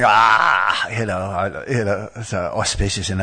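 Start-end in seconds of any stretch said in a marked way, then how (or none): 0.0-0.9 drawn-out "ah" in place of a laugh; mock a hearty laugh with one long "ah"; imitated hearty laugh. Showing why the Lord was laughing, imitated laughing "ah". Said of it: "that's why he was laughing".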